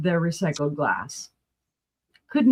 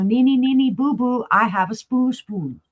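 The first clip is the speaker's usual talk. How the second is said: teasing gloat; 3 semitones higher than usual. Retold or imitated. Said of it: "I'm like, "Look, I'm excited".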